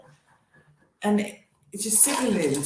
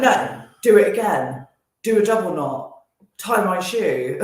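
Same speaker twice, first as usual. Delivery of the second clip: louder mock old-man order, slowing at the end; old man ordering a stranger to retie his shoe; loud bossy demand; 6 dB louder than usual. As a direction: bark it like a rude old man. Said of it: "but really loud and aggressive".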